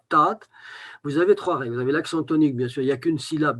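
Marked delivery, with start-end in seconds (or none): 0.1-0.4 "taat" as one syllable with a long A; Breton word taat. Shown as a demonstration. Teacher demonstrating the Breton word "taat", one long syllable. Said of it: "J'ai dit une syllabe".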